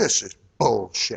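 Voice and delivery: soft, big put-on cowboy voice. Describing a talking desk button, you quote what it says: big cowboy voice. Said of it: "in a big cowboy voice".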